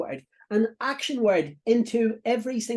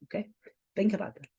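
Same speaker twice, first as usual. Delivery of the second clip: whisper; 2 semitones higher, 4 dB quieter, faster than usual. Real, not acted. Pause to let quote sink in.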